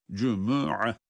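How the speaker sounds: "Cumu'a" with the u after m sounded; u on the mim. Shown as a demonstration. Teacher reminding about the vowel, "Cumu'a" in three syllables. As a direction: give "Cumu'a" its full middle u. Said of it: "Mimin ötresini unutmuyoruz".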